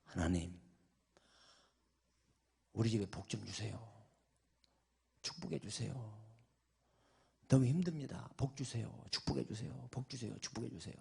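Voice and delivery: soft, hushed retold prayer; imitated pleading prayer. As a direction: pray quietly, repeating the plea. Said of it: "이렇게 기도했답니다". (나직이 간구하는 기도 흉내)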